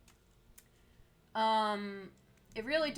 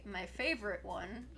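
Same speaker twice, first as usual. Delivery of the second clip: dry sarcasm, a little softer; sarcastic; 5 dB quieter than usual. Real, not acted. Streamer griping to chat about shortages, sarcastic. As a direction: say it as if it were your favorite, meaning the opposite. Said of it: "hard emphasis on the sarcasm there".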